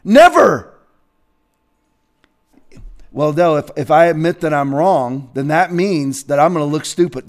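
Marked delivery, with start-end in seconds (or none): 3.1-7.3 lower, softer mocking whine; mock stubborn objector. Mocking a person who won't admit they were wrong. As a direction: sulk like someone afraid to look stupid.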